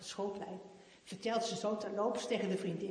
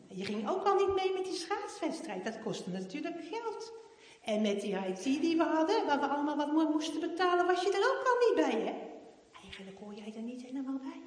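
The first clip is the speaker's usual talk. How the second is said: put-on higher, louder snide girl voice; mocking classmate; 7 semitones higher, 7 dB louder than usual. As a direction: rub it in like a smug classmate. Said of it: "zo van".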